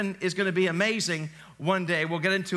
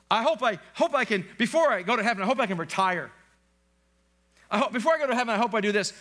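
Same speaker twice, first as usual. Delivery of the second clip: higher-pitched mock wishful voice; raised pitch, imitating an earnest wisher; people's eager wishing; 4 semitones higher, faster than usual. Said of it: "people say to me".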